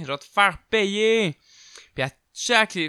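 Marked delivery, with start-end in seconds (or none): 0.0-1.4 high, slow cackling witch voice; sorcière menaçante, voix lente et aiguë; witch's threat. Retold or imitated. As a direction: croak it like an old witch. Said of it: "elle criait".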